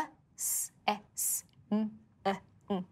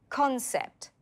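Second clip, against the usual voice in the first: "Concept" with the first syllable stressed, pitched higher; stress on CON; 4 semitones higher than usual. Shown as a demonstration. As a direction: hit the CON in "Concept", then let it fall. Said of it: "The stress is on con".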